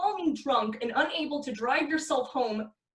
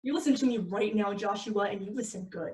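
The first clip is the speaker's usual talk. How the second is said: stern scolding; 2 semitones lower than usual. Acted. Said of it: "the full name treatment".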